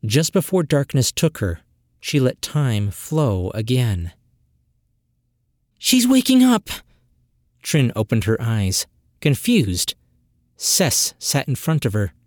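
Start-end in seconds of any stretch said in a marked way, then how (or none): 5.8-6.7 high, loud excited cry; excited call. Acted. Sister calls out joyfully as Trin wakes, high and loud. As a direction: call out that she's waking.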